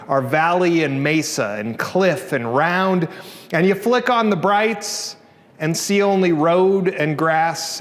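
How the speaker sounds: slow, measured poem recital; poetry reading. Acted. Poet reads a night-driving poem to the audience, slow measured recital. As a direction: read the poem slowly, lingering on the images.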